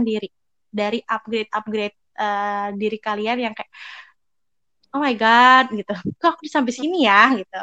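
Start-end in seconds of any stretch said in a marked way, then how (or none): 4.9-7.3 louder, stretched-out exclamation; mock awe at your own progress; acted amazement. Seeing your own upgrades on the CV, amazed.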